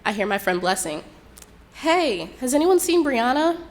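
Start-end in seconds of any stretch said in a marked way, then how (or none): 1.7-3.6 high, loud searching call; retold friend's raised-voice call. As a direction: call across a party for a missing friend. Friend calls out searching for her.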